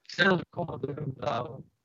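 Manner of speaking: garbled robot sound from a failing connection; robotic glitch. Real, not acted. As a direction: let the bad line chop the words up robotically. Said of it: "Dit is echt gewoon een robot".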